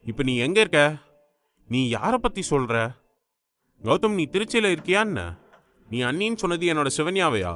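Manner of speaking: anxious questioning; agitated. Acted. Elder brother questioning Gautham about Sivanya, agitated. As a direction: press for answers with growing alarm. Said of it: "Siddharth பதற்றமானான்".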